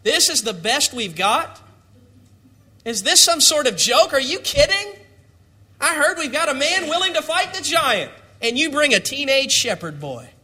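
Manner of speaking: disappointed disbelief. Acted. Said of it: "his hopes were crushed".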